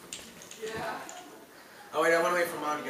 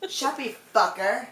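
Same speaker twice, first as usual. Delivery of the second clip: mock-British retort, raised pitch; British-sounding insult; 4 semitones higher, 4 dB louder than usual. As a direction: snap it back with a British lilt. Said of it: "like, British".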